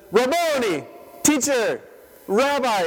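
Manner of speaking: high, bright cry of joy calling his name; Mary crying out Rabboni to Jesus, overjoyed; joyful recognition. Acted. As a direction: call out to him in sudden delight.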